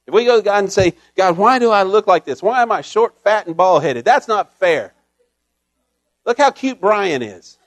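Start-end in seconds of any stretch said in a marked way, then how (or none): 1.2-7.6 loud, petulant whining; mock complaining prayer. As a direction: gripe about your looks, hammed up. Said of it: "That's complaining. That's not praying".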